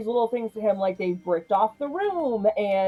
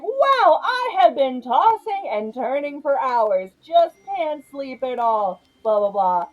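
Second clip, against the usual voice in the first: mock innocent Vicky; 5 semitones higher, slower than usual. Vicky feigning sleeplessness.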